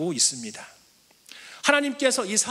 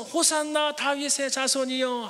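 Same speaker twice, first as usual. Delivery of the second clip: higher, joyful acclaim; crowd's cheer; 6 semitones higher than usual. Retold or imitated. Preacher voices the crowd hailing Jesus, cheering. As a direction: call it out like the welcoming crowd.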